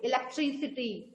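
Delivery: इलेक्ट्रिसिटी softly sounded out in parts; syllable by syllable. Shown as a demonstration. Teacher recapping the divided word, इलेक्ट्रिसिटी part by part. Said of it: "तोड़ तोड़ के different part में divide करके".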